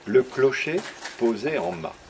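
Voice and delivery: slow, measured reading with long pauses; poem recitation. Acted. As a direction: savour each line of your own verse. Recites his poem on tour.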